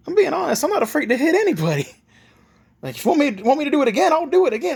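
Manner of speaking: high, emphatic warning; brash threat. Acted. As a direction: insist boldly, rising in pitch and force. Naruto threatens to hit kid again.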